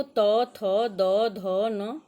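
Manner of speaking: teacher loudly reciting a consonant group; loud letter recital. Shown as a demonstration. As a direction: call each letter out to the whole class. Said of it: "त वर्ग देखो".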